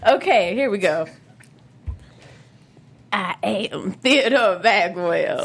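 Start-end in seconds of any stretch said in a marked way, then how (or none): 3.1-5.4 slow, lightly voiced villain intro; Theodore Bagwell impression. Hosts' quiz game, a slow creepy convict voice. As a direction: announce yourself slowly as a creepy inmate. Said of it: "this is my Theodore Bagwell".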